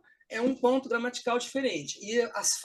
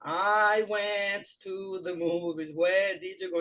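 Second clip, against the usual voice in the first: slow, mechanical textbook English; mechanical reading; much slower than usual. Retold or imitated. Student reciting from the textbook, mechanically. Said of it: "bem mecanicamente".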